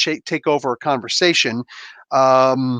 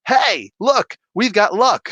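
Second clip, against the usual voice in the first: high, eager mock voice; perky mock chorus; 7 semitones higher, slower than usual. Lucky guys piping up on the train, perky and high. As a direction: imitate them chirping up, pitched high.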